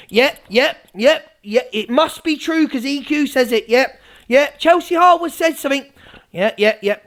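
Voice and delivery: mindless, rapid-fire agreement; Evil Army impression. Mimicking followers who believe EQ, mock credulous. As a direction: parrot the yeses like a gullible follower. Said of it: "I'll do an impression of the Evil Army".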